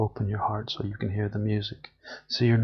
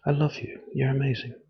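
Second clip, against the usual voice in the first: bright, tender "I love you"; demo warmth; 3 semitones higher than usual. Shown as a demonstration. Showing listeners how to say it to themselves, warmly. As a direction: show how it is done, warmly. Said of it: "Just do it like this".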